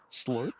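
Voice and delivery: milkshake slurp through a straw; sucking thick milkshake. Real, not acted. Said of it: "I was drinking a milkshake".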